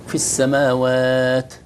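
slow السماوات with a long vowel and clean t; without excess hams. Shown as a demonstration. Teacher models for Abdullah, no excess breath on ta. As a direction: hold السماوات out, then close the t without hissing. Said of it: "بدون همسة هذه".

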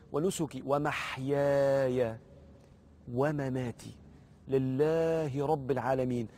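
drawn-out, measured prayer phrases; very slow devotional recital; slow recitation. Shown as a demonstration. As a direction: linger on each word, pausing between phrases. Slow demonstration of prayer words.

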